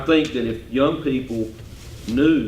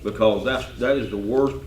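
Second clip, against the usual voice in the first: talking around a mint; mouth full. Real, not acted. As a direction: mint in the mouth, words slightly blurred. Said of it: "excuse me, I got a mint in my mouth".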